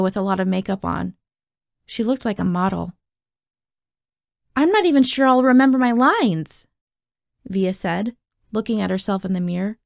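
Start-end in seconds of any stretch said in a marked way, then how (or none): 4.5-6.7 higher-pitched, anxious admission; mild stage-fright panic; nervous worry. Acted. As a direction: fret aloud before going on stage. Understudy panicking before going on.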